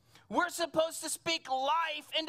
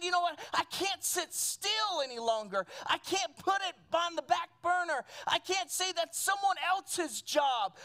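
high, forceful preacher voicing a man's determination; impassioned resolve; 4 semitones higher than usual. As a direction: push it out as an urgent vow. Acts Nehemiah refusing to sit still.

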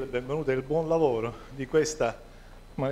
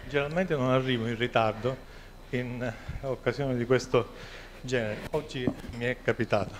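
out of breath. Real, not acted. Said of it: "Scusate il fiatone".

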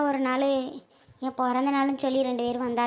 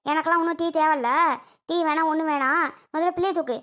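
exasperated scolding, moderately raised; angry nagging. Acted. Selvi demands the baby be picked up before tea, nagging angrily. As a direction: keep pressing the order, fed up. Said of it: "எவ்வளவு நேரம் சொல்லிக்கிட்டு கத்திட்டு இருக்கேன்".

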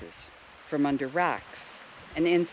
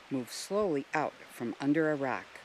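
plain reading voice

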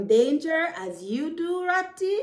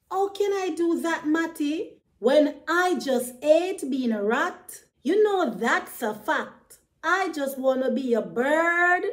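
lightly raised, complaining rat voice, quick start; a hint of a frustrated little rat, pitched up; storyteller voicing a sulky rat a touch higher; Ratty the rat, unhappy; 4 semitones higher than usual. Ratty complains about being rat.

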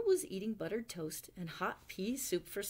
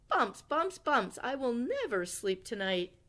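frantic despair; 5 semitones higher, 4 dB louder than usual. Acted. Owl despairs over bumps.

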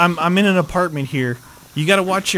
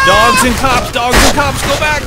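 shouted warning; 7 semitones higher, 7 dB louder than usual. Real, not acted. Warning partner of enemies.

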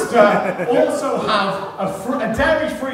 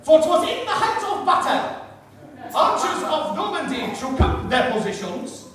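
epic recital; 3 semitones higher than usual. Pretend. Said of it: "recite it in Old English".

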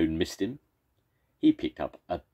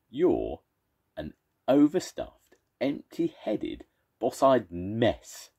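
high, slow, louder stretched insult; shouted insult; 7 semitones higher, 4 dB louder, slower than usual. Acted. First monster shouts while throwing a boulder. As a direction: hurl each word like a boulder. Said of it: "shouted the first monster".

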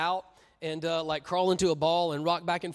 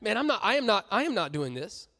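casual refusal; 4 semitones higher than usual. Retold or imitated. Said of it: "A K A".

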